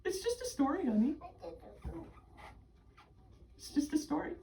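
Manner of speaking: high-pitched, tender comforting; gentle reassurance. Real, not acted. Game master parent comforts a worried child mid-story, gentle reassurance.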